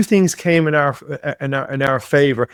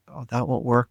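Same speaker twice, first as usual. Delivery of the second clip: dismissive father; 6 dB quieter than usual. Retold or imitated. Father dismissing son's plan.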